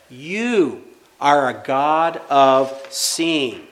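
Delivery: "You are a God of seeing" stretched very slowly, each word weighted; slow emphatic repeat. Shown as a demonstration. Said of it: "what does she say back".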